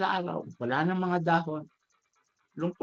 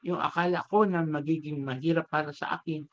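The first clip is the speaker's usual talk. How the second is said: understand at last, voice lowered with a touch of tears; tearful realization; 4 semitones lower than usual. Acted. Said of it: "naiyak yung bamboo".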